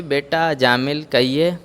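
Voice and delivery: smiling. Acted. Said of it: "गुरुजी मुस्कुरा करके बोले".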